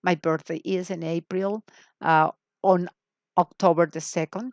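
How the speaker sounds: slow question and answer; slow model dialogue. Shown as a demonstration. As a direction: say it slowly to copy. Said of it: "La pregunta es".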